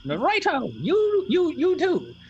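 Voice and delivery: put-on high, creaky little old woman; tiny old lady voice. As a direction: play a bossy tiny crone, way up high. Familiar replies.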